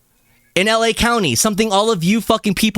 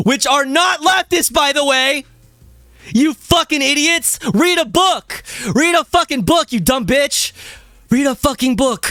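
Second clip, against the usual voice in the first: emphatic shouting; 7 semitones higher than usual. Acted. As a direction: yell it like a furious reply. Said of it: "which I had to fucking emphasize".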